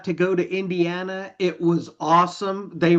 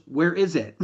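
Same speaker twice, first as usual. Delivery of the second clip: laughing while quoting; 2 semitones lower than usual. Retold or imitated. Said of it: "she goes".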